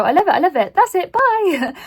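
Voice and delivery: mock lazy one-line review; lazy dismissive review. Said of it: "I can't just go".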